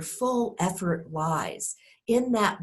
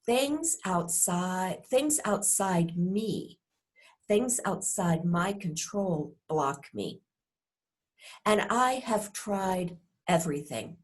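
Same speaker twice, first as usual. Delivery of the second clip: resigned, worn-down complaint; frustrated tone. Shown as a demonstration. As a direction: drag it out like you've given up on everything. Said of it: "underneath that frustrated tone".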